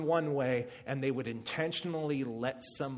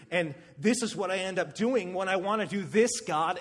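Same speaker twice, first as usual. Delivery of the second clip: pleading Paul; 4 semitones higher than usual. Acted. Voicing Paul's inner struggle.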